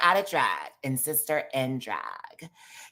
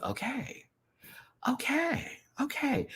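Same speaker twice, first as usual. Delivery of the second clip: awed whisper okay; 7 dB quieter, slower than usual. Retold or imitated. Impressed whispered okays rising high.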